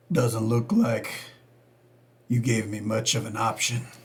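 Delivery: put-on old cowboy voice, low. Playing a blogger called in for questioning, answering the investigator: Clint Eastwood old cowboy voice. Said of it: "He sounds like an old cowboy".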